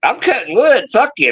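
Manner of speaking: high, loud retold snap at his girlfriend; annoyed yell. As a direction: bark it back like he's busy working. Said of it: "I'm like".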